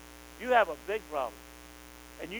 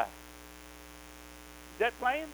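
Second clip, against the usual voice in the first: whispered aside; 4 semitones higher, 4 dB quieter, much slower than usual. Real, not acted. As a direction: whisper the question. Preacher drops voice mid-sermon.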